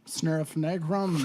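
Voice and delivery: slow reversed gibberish; drawn-out backwards word; backwards speech. Shown as a demonstration. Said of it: "And play it backwards".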